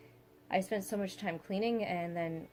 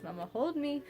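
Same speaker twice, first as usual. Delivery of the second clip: imitating toddler; 7 semitones higher than usual. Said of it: "she goes".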